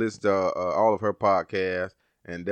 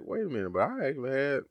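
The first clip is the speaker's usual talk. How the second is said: surprised; 7 semitones higher than usual. Retold or imitated. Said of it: "I was like".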